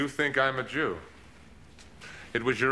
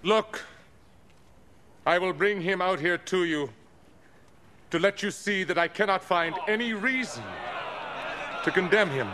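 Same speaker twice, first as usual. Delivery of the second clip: raised, higher voice presenting the prisoner; calling out to the crowd; 4 semitones higher than usual. Acted. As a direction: governor showing the prisoner to the mob. Pilate presents Jesus to crowd.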